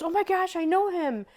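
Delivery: high, excited imitation of the woman; lightly voiced stranger's delight; excited recognition. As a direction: squeal it like you just recognized him. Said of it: "and she goes".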